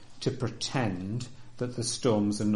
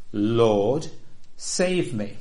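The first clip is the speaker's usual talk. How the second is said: a loud plea for rescue; crying out; 4 dB louder, much slower than usual. Retold or imitated. Preacher voicing the believer's cry, a loud plea. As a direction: call out to the Lord for help. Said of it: "It is our habit to cry out".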